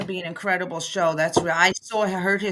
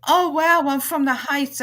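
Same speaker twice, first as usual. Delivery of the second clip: higher-pitched mock delight; lightly acted happy discovery; retold excitement; 6 semitones higher than usual. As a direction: imitate a thrilled stranger. Voices delighted stranger in story.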